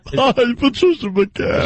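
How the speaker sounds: high, put-on announcer voice with stretched words; mock her high, drawn-out voice; Patricia McCann impression. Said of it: "She's got that voice".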